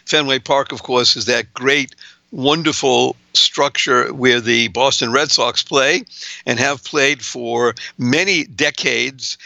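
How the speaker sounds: ordinary delivery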